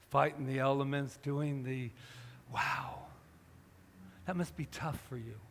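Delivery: reassuring. Retold or imitated. Reassuring frightened woman he woke.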